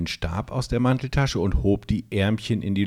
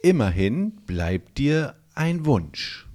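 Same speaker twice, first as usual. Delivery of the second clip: consoling; 6 semitones higher than usual. A narrator's reading. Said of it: "meinte es".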